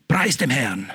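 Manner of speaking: a hint of a devout footballer; footballer's quiet praise. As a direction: hush it like a player's aside. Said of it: "was ein Spieler gesagt hat".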